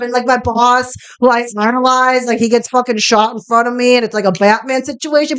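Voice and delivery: lightly voiced Boston tough guy, mostly own voice; a hint of a swaggering Boston movie star cursing casually; Mark Wahlberg impression. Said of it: "Nope, Mark Wahlberg impression".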